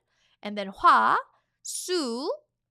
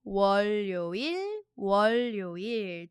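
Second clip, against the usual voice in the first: repeat-after-me drill. Shown as a demonstration. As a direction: clear teacher model for learners to echo. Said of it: "Repeat after me three times".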